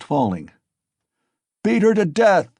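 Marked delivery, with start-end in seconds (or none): 1.6-2.5 loud, high murderous shout; crying out furiously. Acted. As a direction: scream it in blind rage. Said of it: "cried Mikolka".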